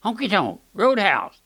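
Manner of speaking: a hint of squawky parrot. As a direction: imitate a pet parrot blurting it out. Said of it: "He kept saying".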